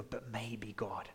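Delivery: soft, near-whispered plea to God; hushed pretend prayer. Listener imagining a quiet prayer, hushed plea. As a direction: breathe it like a timid hope. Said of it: "as you feel your faith levels rise".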